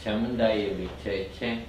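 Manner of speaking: measured chant on a steady note; even, unhurried recitation; slow mantra. Shown as a demonstration. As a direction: recite the syllables without hurry. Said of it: "I do it again slowly".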